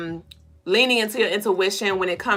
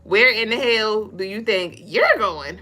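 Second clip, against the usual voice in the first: Rasputia voice. Retold or imitated. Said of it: "Respucia ass energy".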